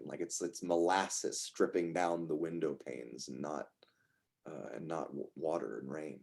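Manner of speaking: game master's dream narration. Acted.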